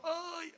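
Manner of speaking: a lighter high groan of stiff knees; mock groan getting up. Shown as a demonstration. Preacher joking about his own knees, light mock groan. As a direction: groan playfully as if your knees creak. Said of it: "Yo me paro y digo".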